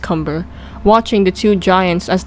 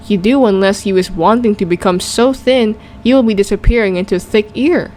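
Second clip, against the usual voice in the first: lightly voiced gentle giant, rustic; a kind old giant muddling his words; friendly giant voice. BFG speaks to Sophie.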